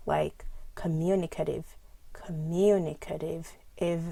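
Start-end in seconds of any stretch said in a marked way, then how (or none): 0.8-3.5 communicative with main stress on MU; coMUnicative, syllables stepped out; primary and secondary stress. Shown as a demonstration. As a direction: lean on MU, lighter on the end of communicative. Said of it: "primary and secondary stress".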